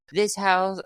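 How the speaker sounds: Paula Deen voice. Retold or imitated. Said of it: "let me try doing my best Paula Deen impression".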